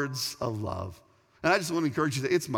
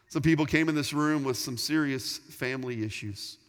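prayer. Acted. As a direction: pray humbly and steadily for the room. Leads the closing prayer.

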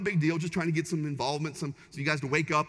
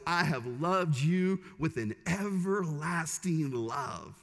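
slow, tender; much slower than usual. Retold or imitated. Quoting God's words in Jeremiah.

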